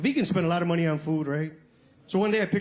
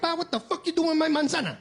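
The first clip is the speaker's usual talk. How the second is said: mock telling-off; 9 semitones higher than usual. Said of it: "I went off on him in Spanish".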